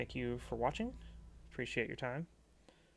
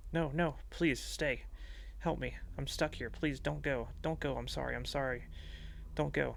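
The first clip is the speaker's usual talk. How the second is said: desperate pleading; 3 semitones higher than usual. Acted. Trapped Nick begs captor to stay.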